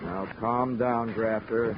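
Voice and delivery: slow, soft and steady; calming. Acted. Detective slowly calms the threatening man, softly. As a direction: settle him down slowly.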